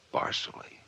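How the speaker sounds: a breathy unvoiced aside; whispered realization. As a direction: barely breathe the name in recognition. Recognizing the name, aside.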